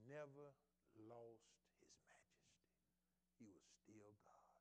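slow hushed whisper; reverent whisper. Acted. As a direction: drop to a whisper of awe. Hushed reverent moment in sermon.

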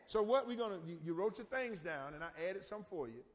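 ordinary talk

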